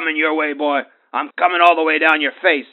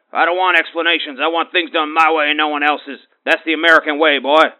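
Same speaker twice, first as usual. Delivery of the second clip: worked up; 3 semitones higher, 4 dB louder than usual. Acted. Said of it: "Now you got me all worked up".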